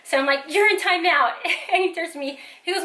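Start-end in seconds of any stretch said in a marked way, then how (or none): 0.5-1.3 louder, higher, mock-stern order; a touch of exasperated scolding; mildly furious mom. Mom sends son to timeout, mildly furious. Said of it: "even more, like, livid and furious".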